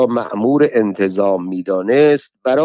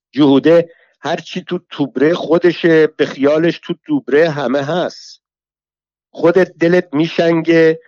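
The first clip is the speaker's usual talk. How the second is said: higher, biting scolding tirade; raging rival woman, somewhat higher; furious rival; 4 semitones higher than usual. Acted. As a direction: tear into her with insults. Saheb Soltan rages back.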